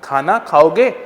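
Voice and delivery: put-on drawn out like asking a child; slowly, spelling it out for a small child; patient, slowed-down question; slow and gentle. Shown as a demonstration. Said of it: "slow बोल करके".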